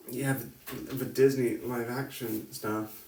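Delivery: slow, deliberate delivery; drawn out word by word. Shown as a demonstration. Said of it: "trying to say that slowly".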